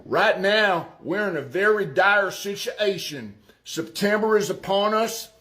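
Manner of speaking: put-on Arkansas accent. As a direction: read it like an Arkansas farmer. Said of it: "I'm gonna do it in my best Arkansas accent".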